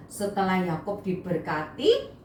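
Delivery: usual speaking voice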